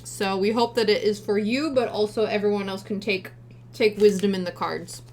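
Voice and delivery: talking through a mouthful of granola bar; speaking while chewing with mouth full. Real, not acted. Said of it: "Sorry, I'm talking with my mouth full".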